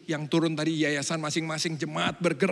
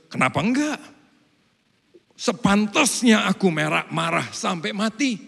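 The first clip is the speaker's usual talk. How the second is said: defiant Jonah; 4 semitones higher, 5 dB louder than usual. Retold or imitated. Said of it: "Jawab Yunus".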